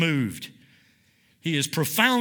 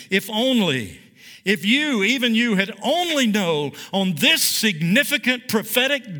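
higher, pleading build on "if only, if only"; impassioned preaching; 4 semitones higher than usual. Acted. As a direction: preach it like a lament that won't let go. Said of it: "preaching Jesus' lament at full force".

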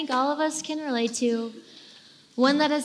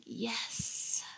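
breathy relieved yes, almost no voice; relieved sigh; 13 dB quieter than usual. Pretend. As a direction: let it out like sinking into bed. Flopping into bed, relieved.

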